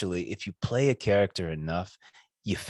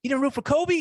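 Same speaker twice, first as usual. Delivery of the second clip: mock surprise. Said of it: "And I was like".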